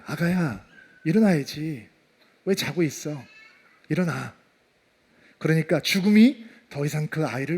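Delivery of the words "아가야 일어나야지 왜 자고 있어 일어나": soft, low, loving murmur; gentle parent at the child's ear; tender wake-up. Acted. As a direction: coax a sleeping child awake in a hushed voice. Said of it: "죽어있는 아이에게 이렇게 말씀하시는 거예요".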